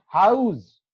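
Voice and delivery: हाउस as people commonly say it; common mispronunciation. Shown as a demonstration. Teacher showing how people say it, हाउस mispronounced. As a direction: demonstrate the common way of saying हाउस. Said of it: "लोग बाग क्या कह देते हैं".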